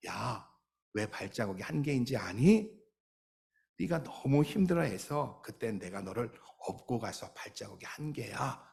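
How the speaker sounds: a lightly voiced tender Jesus explaining; gentle Jesus. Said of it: "주님이 그러시더래요".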